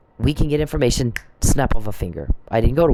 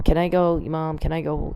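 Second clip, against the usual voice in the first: higher voice imitating a pleading kid; pestering child; 4 semitones higher than usual. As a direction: lightly mimic a child interrupting mom. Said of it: "my kids would come poke".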